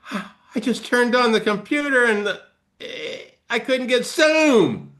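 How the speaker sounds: high-pitched hammed-up distress; over-reactive, frantic high voice rising to a cry; acted panicky overreaction. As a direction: wail it like a mock catastrophe. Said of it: "have you ever seen people going".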